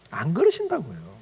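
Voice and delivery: ordinary delivery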